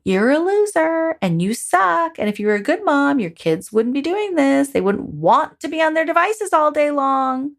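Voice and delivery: mock the voice calling you a loser; mild hammed-up harsh critic; mean inner critic. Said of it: "This voice, however, is not very kind. It's like".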